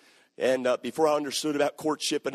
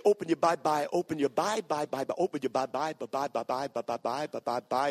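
mock a stammering preacher failing at Bible; stuttering preacher; 3 semitones lower than usual. Imagined preacher in pulpit stammering, a hint of stutter. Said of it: "I'm gonna say".

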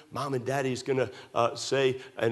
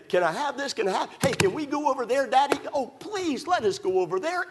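put-on high pleading kid voice; begging child; 10 semitones higher than usual. Child pestering Daddy to go somewhere, high begging. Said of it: "And they".

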